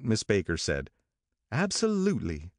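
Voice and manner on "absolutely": abrupt, high single word; sudden outburst. A narrator's reading. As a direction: blurt it out of nowhere. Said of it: "with such suddenness that I started".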